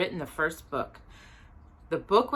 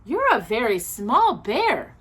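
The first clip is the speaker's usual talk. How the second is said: gentle remark; 5 semitones higher, 4 dB louder, slower than usual. Acted. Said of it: "she said".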